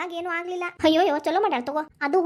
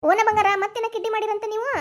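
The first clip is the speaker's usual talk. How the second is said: doting tease; 4 semitones higher, 4 dB louder than usual. Acted. Grandmother teasing beloved child.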